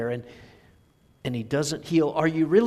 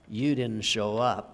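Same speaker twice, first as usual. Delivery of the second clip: slow, weighty "you" in "you didn't show up"; stress on you; 3 semitones lower than usual. Shown as a demonstration. Preacher to congregation, stress on "you" in "you didn't show up". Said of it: "Everybody knows".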